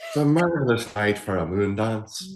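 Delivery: a playful put-on Irish accent, lilting the word marvelous; fake Irish accent. Joking with her cohost, in a fake Irish accent. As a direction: croon the line in a mock Irish lilt like a singer. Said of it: "say in your fake Irish accent".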